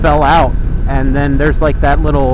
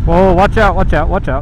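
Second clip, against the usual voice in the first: alarmed; 5 semitones higher, 4 dB louder than usual. Real, not acted. Rough patch on the bike.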